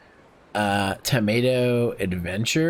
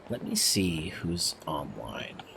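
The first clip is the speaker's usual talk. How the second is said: whispering; 8 semitones lower, 10 dB quieter, slower than usual. Real, not acted. Checking who is online, whispered.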